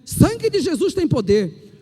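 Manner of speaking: booming slow cry of faith; fervent preacher shout; loud exclamation. Real, not acted. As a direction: call it out to the congregation. Preacher exclaims mid-testimony.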